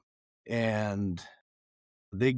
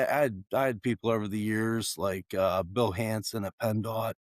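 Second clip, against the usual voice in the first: slightly raspy, tired voice. Real, not acted. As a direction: talk through a worn-out raspy throat. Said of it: "my voice is a little raspy".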